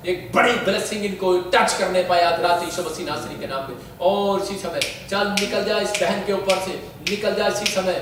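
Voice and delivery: insistent, sustained praying voice; fervent prayer. Real, not acted. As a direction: pray over them, drawing out the openings. Leads prayer over the couple. (जोश भरी प्रार्थना)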